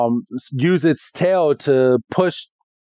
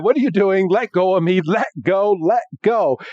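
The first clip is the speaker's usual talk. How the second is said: a lightly raised, insistent let go; struggling plea; 6 semitones higher than usual. Retold or imitated. The Pokemon fighting Ash's grip, a mildly raised protest. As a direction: push him away, a mild protest. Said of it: "It's like".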